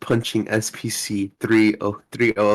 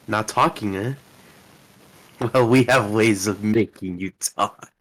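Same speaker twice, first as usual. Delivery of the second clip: cool foreign spy menace; 3 semitones lower than usual. Acted. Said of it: "I'll be Doctor Lingham".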